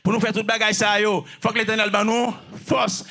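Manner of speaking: full-voiced, insistent preaching; forceful repetition. Real, not acted. Preacher saying we need strength from the Eternal, forceful. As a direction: proclaim it firmly to the room.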